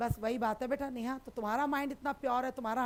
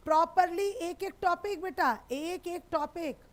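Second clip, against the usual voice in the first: "एक एक topic" higher and drawn out, each word stressed; emphatic promise; 5 semitones higher, 4 dB louder than usual. Real, not acted. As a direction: punch "properly" loud, then stretch "एक एक topic". Teacher insists on thorough coverage.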